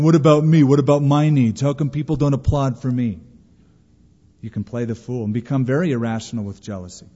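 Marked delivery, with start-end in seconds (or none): 0.0-3.2 loud indignant me-first complaint; whiny demand. Retold or imitated. Self-centred believer whining to be noticed, loud and indignant. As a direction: demand it, louder on the first question.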